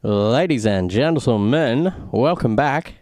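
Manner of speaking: slow, drawn-out broadcast welcome; announcer voice. Acted. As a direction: greet the audience like a race host. Commentator welcoming viewers back from break.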